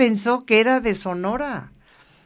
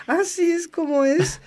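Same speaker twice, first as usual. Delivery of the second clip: higher, incredulous "ah, sí"; answering his blood-ritual idea with mock astonishment; mock surprise; 9 semitones higher than usual. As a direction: feign going along with it, eyebrows up. Retold reply to blood ritual.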